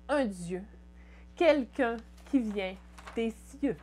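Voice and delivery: measured poetry reading, phrases falling at the ends; poem recitation. Acted. Poet reading a teenage poem to viewers, measured recitation. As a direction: recite it line by line with pauses.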